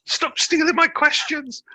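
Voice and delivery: high, slow playful telling-off; mock scolding. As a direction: scold them in jest, high and drawn out.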